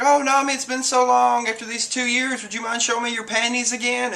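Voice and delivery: high, excited fawning voice; hammed-up high-pitched reunion gush; mock gushing plea. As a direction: act out an overjoyed character making a cheeky request. Acted gushing reunion request.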